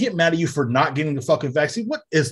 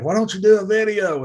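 high whiny viewer voice; whining fan voice, pitched up; mock viewer; 8 semitones higher, 4 dB louder than usual. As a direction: mimic a nagging viewer, higher. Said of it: "they're like".

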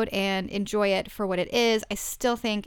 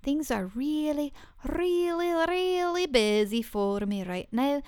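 sing-song Swedish-style really, really, really, rising high; playful put-on Swedish lilt; a hint of Swedish lilt on really; mock Swedish accent; 5 semitones higher than usual. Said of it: "that was kind of Swedish".

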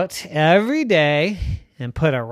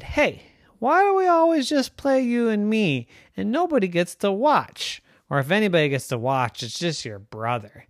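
Puppy's voice; 5 semitones higher than usual. Acted.

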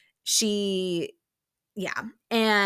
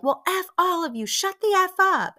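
high, raised-voice imitation; pitched-up mock fury; mock angry outburst; 11 semitones higher, 5 dB louder than usual. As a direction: act out lashing at everyone. Acted angry outburst in quarrel.

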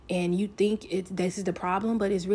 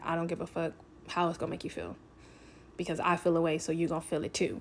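snappy mean retort; 3 dB quieter, faster than usual. Retold or imitated. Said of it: "I do get very snappy with my words".

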